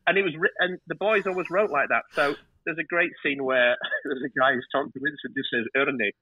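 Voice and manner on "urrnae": ERNIE said as Scots "urnae"; "Ernie" in broad Scots, spelt out as urrnae; Scots dialect word. Shown as a demonstration. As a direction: say "Ernie" as "urr-nae", Scottish for "aren't". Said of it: "you know, U R R N A E".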